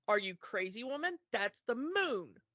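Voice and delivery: acted husband contradicting his wife, pitch jumping on "woman"; lightly acted scolding disbelief; mock incredulous insistence. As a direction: imitate an overbearing husband, drawing out the correction.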